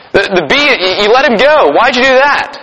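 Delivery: stammering, lightly acted upset girl; freaking-out daughter. Daughter to father after he frees the bee, mock freak-out. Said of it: "she starts freaking out".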